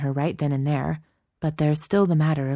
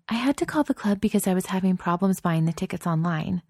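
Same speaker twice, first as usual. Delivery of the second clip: put-on young woman voice; 4 semitones higher than usual. Narrator voices Chloe.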